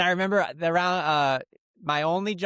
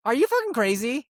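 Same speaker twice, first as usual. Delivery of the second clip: incredulous outburst; 10 semitones higher, 4 dB louder than usual. Retold or imitated. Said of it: "And I was like".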